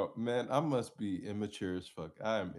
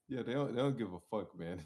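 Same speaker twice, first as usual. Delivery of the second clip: stifled giggles; 4 semitones higher than usual. Real, not acted. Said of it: "I'm trying not to laugh too hard".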